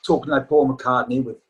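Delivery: head-cold Liverpool voice; a singer's voice. Shown as a demonstration. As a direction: talk like you have a head cold, Liverpool. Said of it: "like that".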